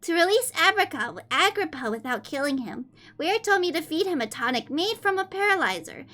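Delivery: put-on high, sweet anime-girl reading voice; fake cute voice. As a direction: read it cutesy and high-pitched. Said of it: "Okay, I'm done reading like that".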